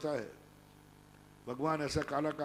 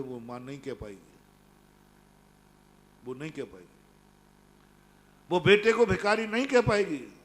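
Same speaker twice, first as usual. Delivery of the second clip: rising insistence; 8 dB louder than usual. Retold or imitated. King insists mother won't say it. (धीमे से शुरू कर ज़ोर से घोषणा)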